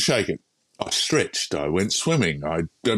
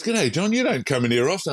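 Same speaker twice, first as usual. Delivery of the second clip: high, lively mock greeting; surprised greeting; 7 semitones higher than usual. Doctor to a patient he rarely sees, imitated surprised greeting.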